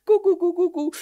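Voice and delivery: put-on high baby babbling; a baby babbling back; baby gurgle. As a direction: gurgle like a happy infant. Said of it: "Und der Kleine so".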